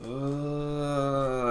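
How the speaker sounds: imitated overdose groan. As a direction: imitate a drugged, drawn-out moan. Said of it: "they start going like this".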